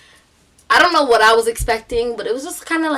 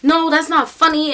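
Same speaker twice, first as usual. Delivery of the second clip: higher, louder mock-crying protest; tearful protest; 7 semitones higher, 5 dB louder than usual. Boy grabbing back his skateboard, mock tearful. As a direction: imitate an upset boy close to tears. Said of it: "he's crying".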